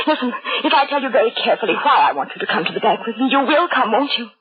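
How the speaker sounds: high, tearful begging; frantic plea, voice climbing high; desperate pleading. Acted. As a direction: beg a stranger, near tears. Frantic woman begging a stranger.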